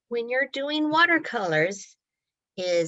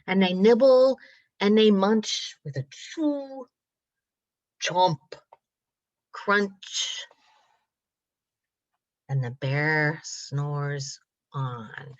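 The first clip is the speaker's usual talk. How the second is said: measured, rhythmic picture-book narration; reading to children. A narrator's reading. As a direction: draw out the rhymes for little listeners. Reads story to children.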